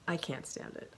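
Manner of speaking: breathless whisper. Real, not acted. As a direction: gush it softly. Gushing over socks.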